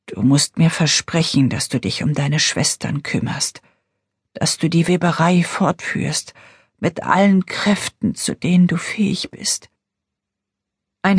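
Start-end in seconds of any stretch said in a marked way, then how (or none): 0.1-9.7 weak dying woman. Acted. Dying mother's last request.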